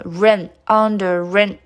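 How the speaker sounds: "under rain" joined as under-ren; linked pronunciation. Shown as a demonstration. Teacher showing the result of linking, "under rain" joined. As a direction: roll the r of "under" straight into "rain". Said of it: "连在一起".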